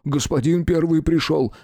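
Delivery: high, gasping dread; a pale guard announcing the demon; breathless awe. A narrator's reading. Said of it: "выдохнул стражник". (выдохнул в страхе)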